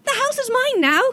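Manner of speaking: character voice. Acted. Child-like NPC voice claiming house.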